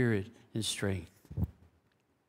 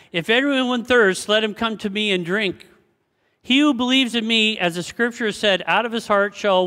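preached scripture; 7 semitones higher, 6 dB louder than usual. Acted. Reading scripture aloud, preaching.

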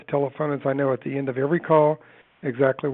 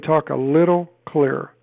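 slow and clear, each word louder and set apart; slow it right down and spell out every word for the caller; 4 dB louder, slower than usual. Shown as a demonstration. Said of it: "See how I just slowed that down?".

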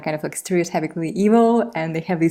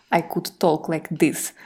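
put-on Russian accent; 4 dB quieter, slower than usual. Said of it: "when you did that accent".

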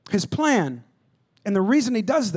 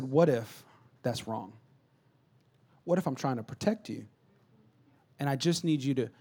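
1 calm dad; 7 semitones lower, 8 dB quieter than usual. Retold or imitated. Dad calms down with son.

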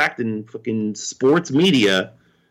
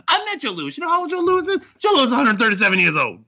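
barber impression; 13 semitones higher, much faster than usual. Quoting barber from Coming to America.

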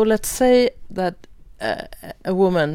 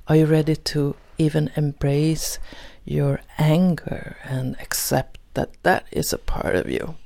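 scripted closing reflection. Acted. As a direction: pose measured questions to the listener, with pauses. Host reads a closing reflection.

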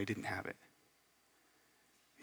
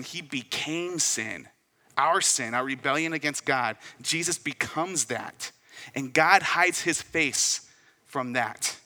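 impassioned preaching; 2 semitones higher, 3 dB louder than usual. Real, not acted. Preaching the cross at full force.

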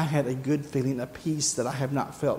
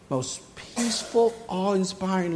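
awed whisper; 2 semitones higher than usual. Acted. Awed description of her look.

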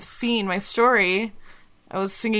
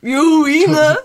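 laughing; 7 semitones higher, 11 dB louder, slower than usual. Real, not acted. Teasing laugh.

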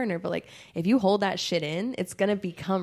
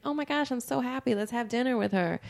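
fake delight; 5 semitones higher than usual. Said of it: "and I'd be like".

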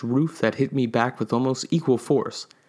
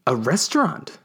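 with glee; 4 semitones higher than usual. Acted. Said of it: "I said with glee".

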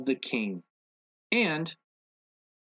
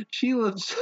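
laughing; 13 semitones higher than usual. Real, not acted. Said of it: "I'm fucking it up".

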